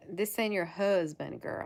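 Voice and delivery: put-on slow, emphatic southern US accent; playful put-on southern accent. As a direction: break it to her in southern twang. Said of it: "keep my southern accent".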